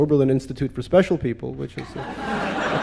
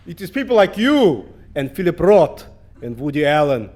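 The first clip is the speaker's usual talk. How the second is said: loud, indignant mock Russian accent; thick Russian accent; 6 dB louder than usual. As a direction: imitate an outraged Russian woman with a heavy Russian accent. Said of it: "she says in a thick Russian accent".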